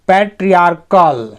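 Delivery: पैट्रियार्कल with the "ch" said as a plain k; पैट्रियार्कल, hard k for ch, R light. Shown as a demonstration. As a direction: say पैट्रियार्कल as "pay-tree-AAR-kul", k sound in the middle. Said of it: "सीएच से यहाँ क ही पढ़ रहे हैं हमने".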